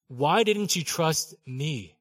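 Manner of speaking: "Why didn't you trust me?" said very slowly, each word drawn out; slow right down on "Why didn't you trust me?", gently pressing; slow, searching. Shown as a demonstration.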